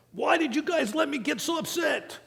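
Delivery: high, laughing self-reproach; high laughing mock mom. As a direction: laugh at your own panic. Mom realizing her mistake.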